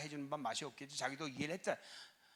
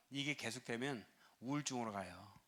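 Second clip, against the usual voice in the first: whispered warning, much lower; a grave whispered aside; hushed whisper; 6 semitones lower, 6 dB quieter than usual. Real, not acted. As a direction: lean in and whisper it. Pastor warns of depression.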